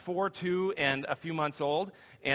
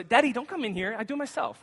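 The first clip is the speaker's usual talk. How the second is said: put-on much higher, bossy little girl; sassy toddler; 6 semitones higher, faster than usual. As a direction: mimic a stubborn two-year-old. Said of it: "she goes".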